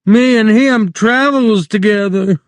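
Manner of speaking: very high, desperate pleading; frantic. Acted. Lenny clings to George in panic, very high. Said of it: "Lenny cried frantically".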